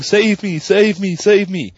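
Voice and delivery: a hint of a fleeing cartoon character calling for help; Daffy. Co-host imitating a cartoon character fleeing, mock pleading. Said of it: "Daffy's running out going".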